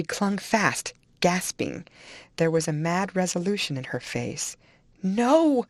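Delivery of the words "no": high, loud cry of refusal; shrieking. A narrator's reading. Dying woman clings to her departing lover, shrieking. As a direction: cry out in desperation. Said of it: "she shrieked".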